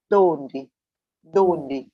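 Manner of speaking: donde punched loud on DON, twice; stress on DON. Shown as a demonstration. Teacher modelling the word for learners, donde stressed DON-de. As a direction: hit the O of donde, then drop. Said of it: "the correct pronunciation will be".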